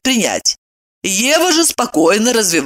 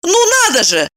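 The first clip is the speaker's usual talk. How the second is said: delighted; 12 semitones higher, faster than usual. A narrator's reading. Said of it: "восхитилась Ева".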